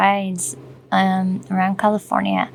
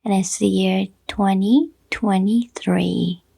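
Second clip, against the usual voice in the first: radio intro; slower than usual. Shown as a demonstration. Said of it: "Do you guys like that intro?".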